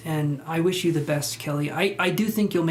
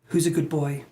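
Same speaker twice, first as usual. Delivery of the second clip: pet talk. Real, not acted. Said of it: "that's how I cheer myself up".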